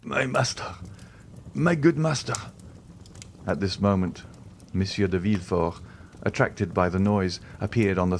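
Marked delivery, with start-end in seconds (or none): 0.0-2.3 pained exclamation. A narrator's reading.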